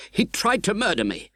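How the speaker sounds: high, fearful repeat; frightened plea. A narrator's reading. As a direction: repeat it in horror of his companion. Terrified convict repeats accusation.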